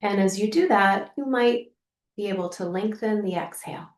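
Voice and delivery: calm, gently softening guidance with long pauses; unhurried, lightly hushed meditation voice; guided meditation. Acted. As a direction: guide the listener gently into the body, leaving room to breathe. Leads a guided practice.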